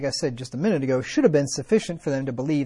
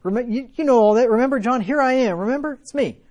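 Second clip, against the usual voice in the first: higher and louder, building to an urgent plea; rising pleading cry, louder with each remember; imagined Jesus pleading; 6 semitones higher, 5 dB louder than usual. Pretend. Preacher voicing Jesus pleading with John in prison, building loud. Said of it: "and be like".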